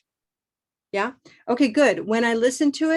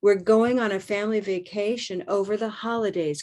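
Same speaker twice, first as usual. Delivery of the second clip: "We're going on a family vacation over the holidays" in a full whisper; unvoiced practice whisper of the sentence. Shown as a demonstration.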